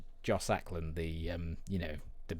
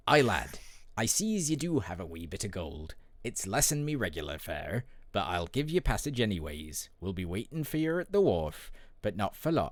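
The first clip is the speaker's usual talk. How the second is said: put-on Welsh accent. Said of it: "I've turned into, like, Welsh then".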